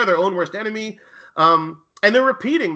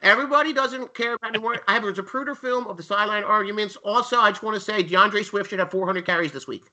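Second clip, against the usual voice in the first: put-on higher-pitched Philly sports-radio caller accent, ranting; 5 semitones higher than usual. Mocking Eagles fans as a talk-radio caller, Philly accent. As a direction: play a fed-up Philly fan calling in, in a Philly accent. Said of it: "I can do a little Philly accent".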